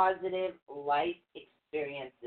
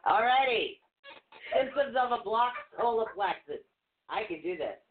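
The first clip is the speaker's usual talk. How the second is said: trying not to laugh; 4 semitones higher than usual. Real, not acted. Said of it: "how hard it is to stay serious".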